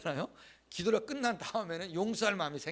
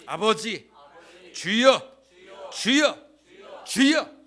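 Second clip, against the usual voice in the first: higher and louder, building to a cry; fervent loud calling; 4 semitones higher, 11 dB louder, slower than usual. Shown as a demonstration. Pastor leads the congregation crying out to God, building loud. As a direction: cry out 주여 as if pleading. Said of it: "다시 한번 해보겠습니다".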